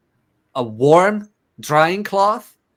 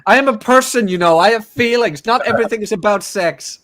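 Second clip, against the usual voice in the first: high mock woman; 8 semitones higher than usual. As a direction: play the offended girlfriend, high. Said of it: "acted woman's complaint".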